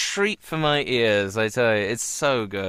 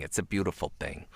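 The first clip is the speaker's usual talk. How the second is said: lower, softer, schmaltzy TV moment; mock sentimental sitcom hush; 7 semitones lower, 8 dB quieter than usual. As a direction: hush it like a very special episode. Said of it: "tonight on A Very Special Blossom".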